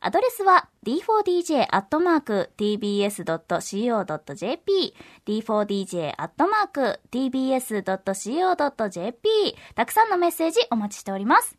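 upbeat announcer with lifted phrases; polished promotional announcement; radio promo read. Acted. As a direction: pitch the news to listeners clearly. Reads programme notices.

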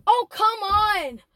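slow, drawn-out retold protest; mad, frustrated. Manager finds lunch break is over, frustrated. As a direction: complain with mild exasperation, stretching it out. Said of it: "And I get mad".

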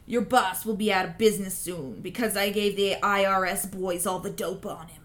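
put-on tough-guy Chicago accent. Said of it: "like, a Chicago accent".

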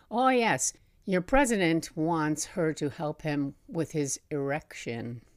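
put-on Mister Huang, Chinese accent. Guide answers tour group about Maggie Thatcher, mild imitated Chinese accent. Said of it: "I'm gonna do an accent here".

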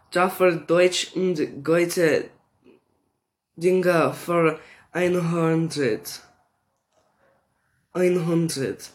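slow, careful German reading "Jaffer Deutsch und Goethe Dinger for ein hundert"; sounding out "ein hundert" slowly as German; attempted German. Shown as a demonstration. Reading fan comment aloud, trying German pronunciation slowly. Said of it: "That's my best, um, thing of German".

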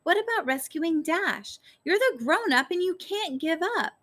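increasingly worked-up plea. A narrator's reading. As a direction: pitch climbing into a high, insistent appeal. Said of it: "her voice getting louder and louder".

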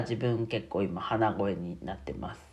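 stuffy nose from a cold; nasal, blocked-nose speech. Real, not acted.

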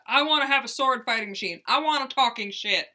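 a hint of hammed-up Southern twang; Deep South accent. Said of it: "suddenly come from this deep south".

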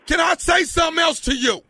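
yelling. Pretend. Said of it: "Can you say it calmly?".

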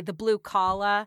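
drawn-out working-class Boston accent; slow, loud Boston "blue collar". Shown as a demonstration. Local explaining her class, broad Boston accent. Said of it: "as we would say".

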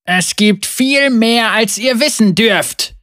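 compassionate. Acted. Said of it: "voll sanftem Mitgefühl und doch auch mächtiger".

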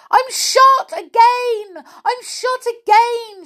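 very high, loud frightened yell; hammed-up storybook terror; Amelia Jane. A narrator's reading. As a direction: squeal it out in mock panic. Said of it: "she yelled".

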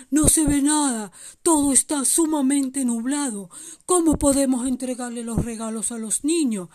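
Santa inquieto, con voz fuerte; preocupación leve en voz de Santa; Santa Claus preocupado. Acted. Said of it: "Santa Claus estaba preocupado". (Santa Claus preocupado)

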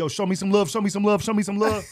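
high, loud repeated crowd plea; imitating hype comic. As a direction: pump up the crowd, parodying eager comics. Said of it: "everybody come on stage and be like".

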